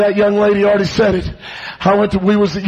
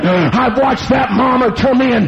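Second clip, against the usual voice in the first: urgent sermon cadence with gasps between phrases; driving preaching; 2 semitones higher than usual. Acted. Preacher testifies about youth camp, driving sermon delivery. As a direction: surge back into punched preaching phrases.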